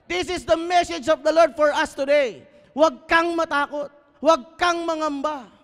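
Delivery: high, loud urging to the congregation; fiery preaching. Acted. Pastor urging the congregation to speak to their neighbour, loud and high. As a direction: push them to turn and talk to each other.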